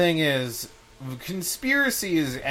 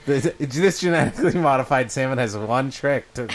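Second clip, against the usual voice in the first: clickbait ad voice; 4 dB louder than usual. Acted. Clickbait ad parody.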